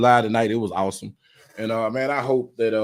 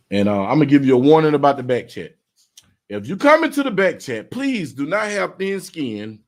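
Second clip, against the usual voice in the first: louder, emphatic warning to viewers; stern warning; 4 semitones higher, 4 dB louder than usual. Real, not acted. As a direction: lay down the rules firmly. Warning viewers about back chat.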